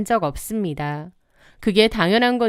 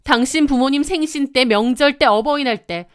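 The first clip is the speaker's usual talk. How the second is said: escalating anger; 4 semitones higher than usual. Acted. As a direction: hammer each occasion harder. Wife's escalating quarrel with husband.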